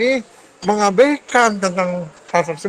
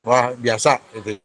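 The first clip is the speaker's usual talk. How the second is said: glitching robot; 7 semitones lower, slower than usual. Real, not acted. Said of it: "suara Bapak putus-putus".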